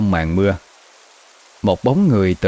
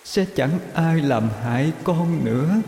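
soft, lilting ghostly hush; soft lullaby murmur; 5 semitones higher, 6 dB quieter than usual. Acted. Ghost mother soothing her unborn child, soft eerie lullaby tone. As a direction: croon to the baby, barely above a breath. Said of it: "khe khẽ hát ru".

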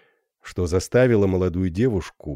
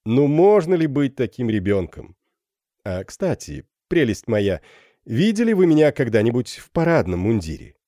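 smug teasing; 4 semitones higher than usual. Acted. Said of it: "пожурил её".

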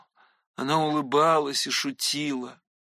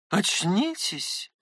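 smiling; 4 semitones higher, much slower than usual. A narrator's reading. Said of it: "улыбнулась она".

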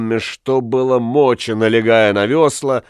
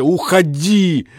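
broken go away; 5 semitones higher, slower than usual. Acted. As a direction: drag Уходи! out, wavering. Husband torn between rage and love.

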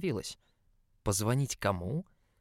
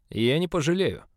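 shouted retort; 6 semitones higher, 6 dB louder than usual. A narrator's reading. Boss shouts back in quarrel.

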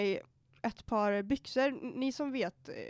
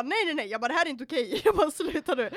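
mock angry refusal; 4 semitones higher, 5 dB louder, faster than usual. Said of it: "så jag blev så jävla arg".

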